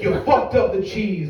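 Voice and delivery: brisker, mildly heated repeat; insistent accusation. Acted. Customer insists to manager about cheese, mildly heated. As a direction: throw the blame back harder.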